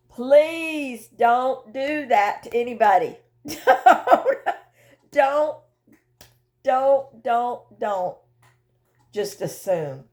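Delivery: slow, pleading through a laugh; half-laughing appeal, slowed down; laughing plea. Real, not acted. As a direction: beg them kindly while laughing.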